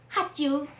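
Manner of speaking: "喝酒" in Shanghainese sounds; Shanghainese reading. Shown as a demonstration. Showing how the old man says "喝酒" in Shanghainese. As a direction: say "喝酒" with Shanghainese pronunciation of the Mandarin word. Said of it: "完全是用上海话的音去".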